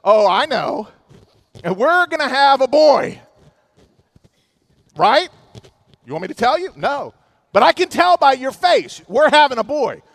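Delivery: wife sure of herself. Retold or imitated. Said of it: "And she says".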